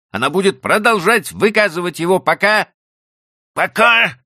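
loud, high exasperated husband. A narrator's reading. Husband to wife blaming the donkey, loud exasperation. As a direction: vent the frustration, building on пока.

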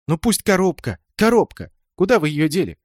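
put-on shrill high demanding girl, rising to a cry on the second коробка; a girl insisting, voice climbing; angry demand. A narrator's reading. Angry girl demanding where her box went.

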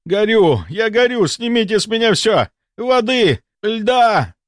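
high, frantic bursts of pleading; crying out. A narrator's reading. Burning patient begs for water, crying out. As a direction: beg desperately for relief. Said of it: "закричал он".

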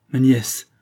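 put-on a touch of a sour old aunt's protest; lightly voiced crabby objection; mild, grumpy start of a protest. A narrator's reading. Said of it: "essaya de protester la revêche Mélanie".

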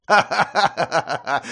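slow, loud villain laugh; booming laugh. A narrator's reading. Hunter laughing at the fencer, loud. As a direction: laugh him off contemptuously. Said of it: "расхохотался охотник".

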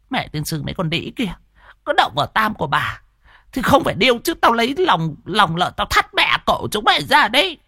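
high, fast, cursing woman's voice; muttered jealous cursing. Acted. Hòa cursing the women who touched Tam. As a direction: rant under her breath at the rivals. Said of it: "lẩm bẩm".

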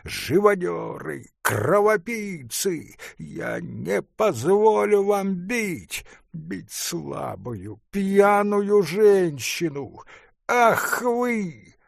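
indignant artist, high, slow, hammered; furious curses; angry shout. A narrator's reading. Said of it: "со злым, негодующим лицом ... крикнул". (злой негодующий крик)

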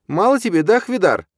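loud, high, furious taunt; spitting the words. A narrator's reading. Stepmother rocking the baby berates her husband, spitting words. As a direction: spit each word out in fury. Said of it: "выплёвывая слова".

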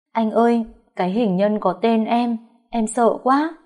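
cling to him, frightened; frightened sobbing plea. Acted. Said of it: "khóc rấm rứt". (vợ hoảng sợ mếu máo với chồng)

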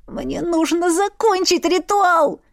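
high, slow, strangled plea; strained moan. Acted. Heroine to Irvin, a high slow strangled moan. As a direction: squeeze it out, moaning. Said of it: "сдавленно простонала я".

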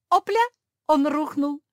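high loud gleeful whoop; triumphant cry. A narrator's reading. Storyteller cheering the stone that felled Antoine, gleeful shout. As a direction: cheer the hit like a victory. Throw hits, enemy falls.

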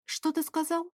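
high and soft, shocked; stunned question. Acted. Shocked woman quietly asks Favius what he said. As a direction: ask it in disbelief. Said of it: "уточнила".

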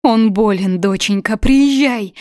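high, loud, voice on the edge of tears; plead, fighting back tears; holding back a sob. Acted. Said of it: "пытаясь подавить всхлип".

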